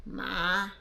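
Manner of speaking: long, level "ma" at mid pitch; tone demo. Shown as a demonstration. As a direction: hold "ma" steady on a middle note. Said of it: "There are four kinds of ma". (pantay na tono ng "ma")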